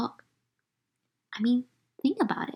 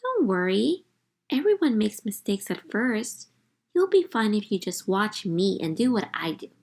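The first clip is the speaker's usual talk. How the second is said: reassuring. Acted. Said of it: "I added".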